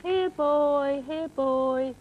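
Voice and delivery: coaxing a dog over, far-off voice; calling a lost pet. Acted. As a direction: call the little dog over. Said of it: "And you're driving him away".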